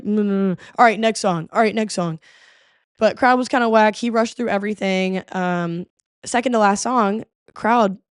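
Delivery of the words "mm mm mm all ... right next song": lightly voiced, listless mumbling performer; a hint of a bored rapper rushing the set; bored rapper impression. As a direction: drone through it like you can't be bothered. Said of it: "walking around like".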